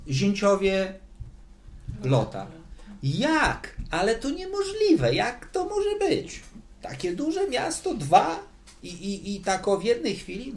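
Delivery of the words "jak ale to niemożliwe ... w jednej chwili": high-pitched mock disbelief, drawn-out questions; incredulous. Preacher acts out Lot's doubting sons-in-law, incredulous. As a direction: protest that it simply can't be possible.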